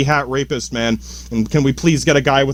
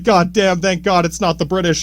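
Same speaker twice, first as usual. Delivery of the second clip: relieved quote; 3 semitones higher than usual. Retold or imitated. Colonists glad they are not ruled by the British, mildly acted relief. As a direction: voice the colonists thanking God, lightly acted. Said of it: "I don't doubt they're like".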